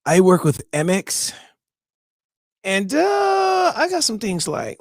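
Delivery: lightly voiced salesman pitch, hardly changed; a hint of a smooth sales rep; David impersonation. Host mimics Amex rep David for listeners, lightly voiced salesman. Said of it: "this is my David impersonation".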